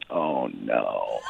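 hammed-up cartoon wail of dismay; Mister Bill. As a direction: draw out a mock distressed "no". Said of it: "a new character, Mister Bill".

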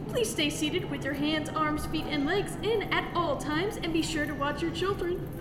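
calm pilot PA announcement; airline captain announcement. Acted. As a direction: read it like a captain on the intercom.

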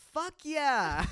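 excited high, loud cheer; Jaden. Retold or imitated. Jaden asked about his favorite artist, excited shout. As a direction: whoop it out, thrilled. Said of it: "seen Jaden get that excited about something".

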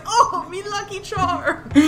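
slow Irish mascot cry, softly; teasing, drawn-out Irish lilt; mock Irish accent. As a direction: ham up an Irish catchphrase through laughter. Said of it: "and you're like".

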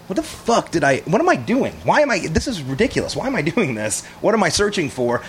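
mock panic, questions tumbling out; retold inner panic. Bound man questioning himself as he waits, mildly panicked.

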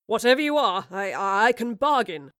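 spluttering in fear. Acted. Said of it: "spluttered Marlowe".

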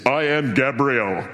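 slow, grand "I am Gabriel"; lightly voiced majestic angel; angel's voice. Angel Gabriel announcing himself to Zechariah, slow and grand. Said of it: "I reckon he'd talk like that".

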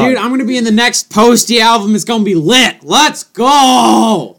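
put-on dumb drunk uncle. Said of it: "sound like a dumb drunk uncle".

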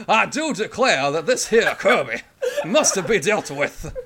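hammed-up Louisiana Bayou plantation owner; Bayou accent. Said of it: "that's a Bayou accent through and through".

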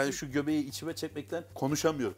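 tummy sucked in, breath held; holding breath. Real, not acted. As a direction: speak while holding your breath in. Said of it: "nefesimi tutuyorum şu an". (nefesini tutarak konuşuyor)

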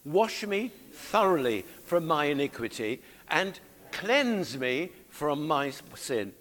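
measured, deliberate psalm reading; congregational scripture reading. Acted. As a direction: lead the congregation through the verse, slowly. Leads congregation reading the verse.

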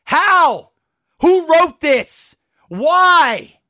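real angry, exasperated demands; pissed off. Real, not acted. Worked-up fan demanding who wrote this, pissed off. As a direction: throw out each question in exasperation. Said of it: "I'm pissed".

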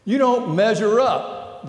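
mild mock serpent taunt; tempting serpent. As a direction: sneer it like the tempter. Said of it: "the temptation voice says".

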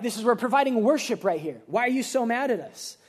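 mock-offended self-justifying plea; acted bewildered exasperation; indignant protest. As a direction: object as if unfairly scolded. Acted protest of temple sellers to Jesus.

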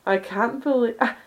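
breathy, slow, overacted anime girl; hammed-up manga girl.

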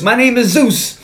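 high, emphatic mock outrage; indignant correction. Zeus setting John straight about his name, indignant correction. Acts Zeus's irritated correction.

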